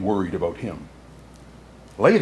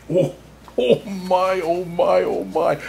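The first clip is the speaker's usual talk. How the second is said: higher, cheery oh my; jolly oh my; 7 semitones higher than usual. Acted. Santa exclaiming with glee before the story, higher. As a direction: delight in it.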